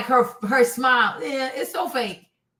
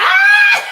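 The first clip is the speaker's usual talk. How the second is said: very high, loud mimicked squeal; piercing mock squeal of recognition; imitated excited scream; 12 dB louder than usual. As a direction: let out a child's delighted shriek, imitating. Imitates child spotting somebody she knows.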